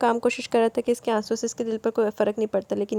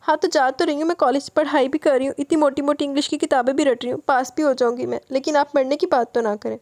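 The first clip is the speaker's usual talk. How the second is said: higher, tearful insistence; mild tearful complaint; tearful protest; 3 semitones higher than usual. Acted. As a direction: protest through tears, a little higher. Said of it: "آنکھوں میں آنسو لیے پھر سے بولی".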